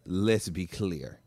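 put-on slow, drawn-out singer-style accent on "Let's be clear"; mock accent of a singer. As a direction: imitate a singer's island accent, slowly. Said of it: "the accent is the same".

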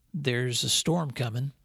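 put-on unhurried old farmer's warning, Southern drawl; slow southern drawl. Uncle warning the boy of a storm, slow southern drawl. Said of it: "said in his slow southern drawl".

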